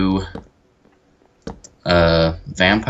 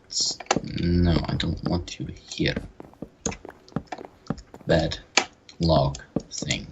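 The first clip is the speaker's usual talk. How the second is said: put-on light Russian accent, mumbled; 3 semitones lower, 3 dB quieter than usual. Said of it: "Why did you suddenly have a Russian accent?".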